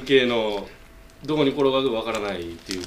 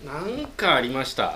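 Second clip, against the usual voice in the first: slower, lower repeat of なんかありました; 4 dB quieter, slower than usual. Shown as a demonstration. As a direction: drag out なんかありました in a low voice.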